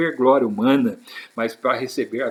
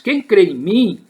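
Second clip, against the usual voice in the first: loud, raised, drawn-out proclamation; crying out; 6 semitones higher, 6 dB louder than usual. Retold or imitated. Preacher quoting Jesus to the congregation, crying out. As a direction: call it out slowly, high and loud. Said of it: "Jesus clamou e disse".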